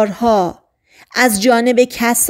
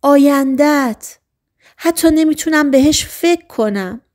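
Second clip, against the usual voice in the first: angry; 5 semitones higher than usual. Acted. Girl angrily tells Martin she can't bear his future, raised voice. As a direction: lash out over his future, voice up high. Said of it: "با عصبانیت گفت".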